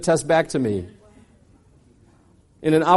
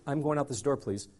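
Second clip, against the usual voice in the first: meek plea; 5 semitones lower, 13 dB quieter than usual. Retold or imitated. Pleading with bouncers.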